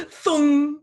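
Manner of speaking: loud cannon-launch noise through laughter; imitated cannon thunk. Host mimicking a t-shirt cannon for a joke, laughing thunk.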